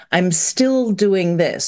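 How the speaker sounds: "still" drawn out slowly; stress on STILL. Retold or imitated. Quoting people who cling to youth, stress on "still". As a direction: lean on the word "still". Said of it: "we emphasize this word still".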